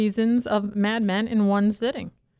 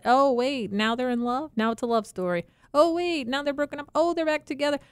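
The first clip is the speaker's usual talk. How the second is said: higher-pitched mock realization; mock surprise; 6 semitones higher than usual. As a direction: lift each new twist as a fresh surprise. Mocks viewer following endless endings.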